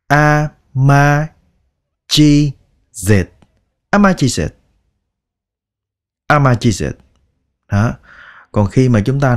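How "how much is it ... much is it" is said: "How much is it" blurred to "a ma chiz et"; native fast speech. Retold or imitated. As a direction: mimic a native swallowing the sounds. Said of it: "người ta nói nhanh thì các bạn có thể nghe là". (bắt chước người bản xứ nói nhanh, nuốt âm)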